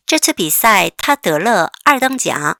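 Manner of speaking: slow, careful reading; slow read-aloud. Shown as a demonstration. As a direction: read slowly so students follow. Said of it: "같이 읽어보겠습니다". (천천히 따라 읽기)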